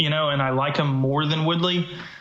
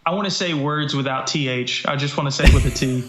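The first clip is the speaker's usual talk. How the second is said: mock Irish accent. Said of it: "You were like".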